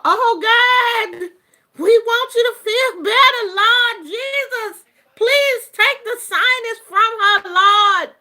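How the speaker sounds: high, loud hammed-up wailing prayer; mock weeping and wailing. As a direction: wail to the Lord like a friend in tears. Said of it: "friends that will be weeping and wailing".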